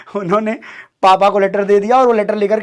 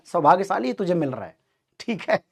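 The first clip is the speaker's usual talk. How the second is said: quieter teasing repeat, fading off; dad repeating the joke more softly; laughing dad; 6 dB quieter than usual. Retold or imitated. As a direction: let the tease trail away softly. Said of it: "वो हंस रहे हैं".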